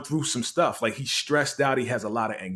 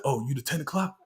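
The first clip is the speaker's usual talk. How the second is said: whispering; 6 dB quieter than usual. Retold or imitated. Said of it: "And he's whispering".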